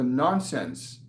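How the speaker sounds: nonsense given a firm, weighted push; stress on nonsense. Shown as a demonstration. Telling the viewer about the guides, stressing nonsense. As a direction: lean into the word nonsense and hold it. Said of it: "and I'm stressing the word nonsense".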